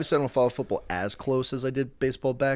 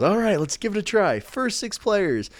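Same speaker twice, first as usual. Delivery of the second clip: higher, louder, slow host voice; promo guy challenge; 10 semitones higher, 4 dB louder than usual. Retold or imitated. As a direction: announce the challenge like a game host. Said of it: "he goes".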